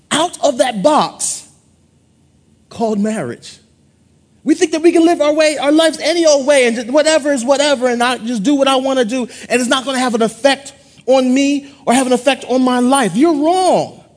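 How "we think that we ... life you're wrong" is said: fast, louder preaching building to rebuke. Real, not acted. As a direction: push faster and louder to the rebuke.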